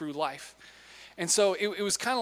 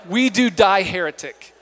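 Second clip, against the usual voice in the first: mock battle cry; 10 dB louder than usual. Preacher echoes punchline.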